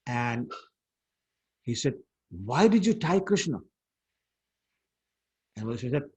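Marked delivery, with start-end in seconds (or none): 2.3-3.6 mildly indignant demand, slightly higher; retold protest with a touch of anger; angry reproach. Brother confronting mother over tying Krishna, mildly angry. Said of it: "So Balram got very angry".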